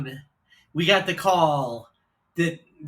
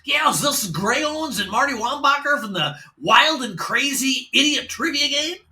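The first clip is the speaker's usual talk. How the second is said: much higher, booming radio DJ; disc jockey voice; 7 semitones higher than usual. Retold or imitated. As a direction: boom it like a morning radio host. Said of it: "this disc jockey sounding voice booms out".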